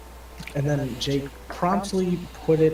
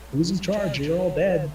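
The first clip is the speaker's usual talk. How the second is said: mock threat; 6 semitones higher than usual. Elf threatens tavern.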